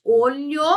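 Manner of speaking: OLHO with the LH syllable leaned on; stressed digraph. Shown as a demonstration. Teacher giving a digraph example, sound emphasized. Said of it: "é um som apenas".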